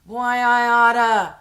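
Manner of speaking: cartoonish comeback, loud and slow; mock threat. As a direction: ham up a sputtering threat. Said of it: "I'm like".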